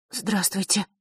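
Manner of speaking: quiet shy grumble; grumbled hello. A narrator's reading. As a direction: mumble it under your breath, shyly. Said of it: "буркнула она".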